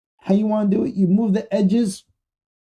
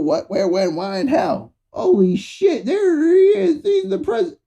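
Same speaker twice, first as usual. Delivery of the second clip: excited friend; 4 semitones higher than usual. Retold or imitated. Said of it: "He'd be like".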